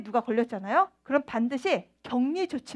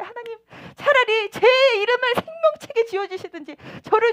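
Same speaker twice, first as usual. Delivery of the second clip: Moses pleading; 4 semitones higher than usual. Acted. Moses voiced pleading for people.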